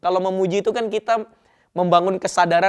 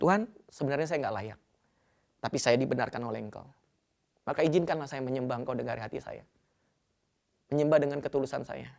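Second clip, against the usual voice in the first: quiet prayer; 4 semitones lower, 8 dB quieter than usual. Retold or imitated. Pastor voices his quiet prayer.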